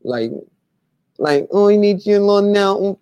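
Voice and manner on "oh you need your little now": high, loud imitation of an Asian accent; hammed-up Asian accent impression; mock Asian accent. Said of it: "he do the Asian accent".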